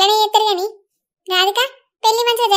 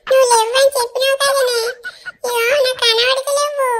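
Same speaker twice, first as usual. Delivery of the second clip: put-on child crying; 4 semitones higher than usual. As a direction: whimper like a boy who lost his things. Child crying over missing treats. (పిల్లవాడి ఏడుపు)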